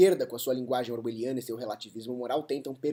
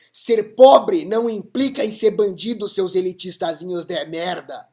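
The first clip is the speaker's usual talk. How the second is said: angry shout; 5 semitones higher, 12 dB louder than usual. Real, not acted. Indignant rant insulting the elitists.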